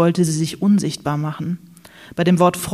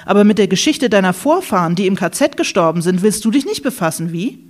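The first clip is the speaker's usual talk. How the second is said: aggressive accusation. Acted. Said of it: "Diese plötzlich aggressive Stimmung".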